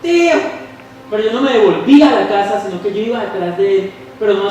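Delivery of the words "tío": high calling shout for the uncle; retold shouting. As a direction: call out loud like a lost child. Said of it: "y gritando por el camino".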